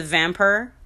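a hint of Southern drawl on "vampire"; lightly imitated Southern "vampire", said as "vamper". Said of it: "that Southern draw kinda came out".

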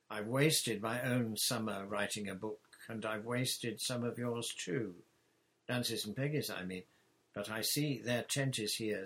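lightly voiced contrite pirate uncle, eager to make amends; a hint of a gruff but sorry pirate; apologising, then cheerfully offering war; Captain Flint. Narrator voicing Captain Flint.

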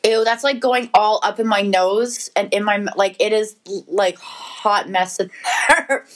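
talking while chewing a jellybean; words round a mouthful of candy; mouth full. Real, not acted. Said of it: "you still chewing it?".

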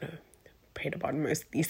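breathy whisper on the correction. Real, not acted. Host quietly correcting manifested to prayed, whispered. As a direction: slip it in softly like a confession.

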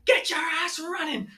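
high, slow, loud coach order; coach barking order. Retold or imitated. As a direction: bark the command at the player. Angry coach yelling at player.

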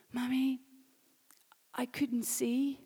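whispered, slow, mimicking the little girl; hushed child's voice. Mother retelling her daughter, soft and whispered. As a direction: breathe it out like a tearful child. Child's tearful words retold.

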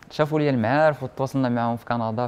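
ordinary delivery

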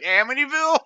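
surprised question. Retold or imitated. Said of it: "You just were fucking like".

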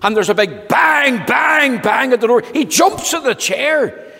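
high, loud booming narration; dramatic loud telling. A narrator's reading. Narrator building suspense for children, loud. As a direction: boom out the banging.

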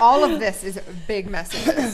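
said through a laugh. Real, not acted. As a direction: laugh while protesting. Laughing back at co-host.

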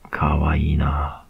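slow voiceless whisper. Acted. Student whispering to tearful teacher. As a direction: breathe it out slowly, barely voiced.

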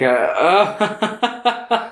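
high, hesitant laugh sounds; demonstrated laugh. Shown as a demonstration. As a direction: imitate a laugh starting from little "uh"s. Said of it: "was it that kind of laughter?".

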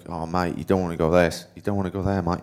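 lightly put-on Australian accent; Aussie accent. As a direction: imitate an Australian coach's accent. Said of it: "That's my best Aussie accent".

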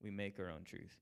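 mock Aristotle pronouncing slowly and smugly; smug philosopher. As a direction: lay down man's truth with slow self-satisfaction. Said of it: "He's like".

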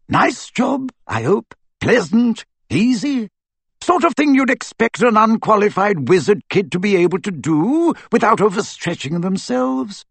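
put-on sarcastic old wizard. Aberforth to Harry about his task, sarcastic. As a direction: needle the boy with heavy irony.

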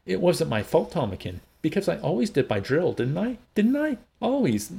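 high, distraught wailing plea; sobbing. A narrator's reading. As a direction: plead your innocence through tears.

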